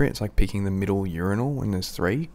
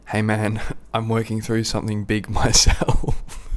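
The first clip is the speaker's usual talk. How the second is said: laughing through quote; 2 semitones higher, 6 dB louder than usual. Retold or imitated. Quoting friend's joke while laughing.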